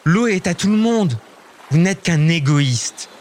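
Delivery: high, indignant outburst slowing at the end; girl scolding a selfish giant, indignant; angry cry. Acted. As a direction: scold the giant, pitch well up. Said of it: "s'écrie Lison".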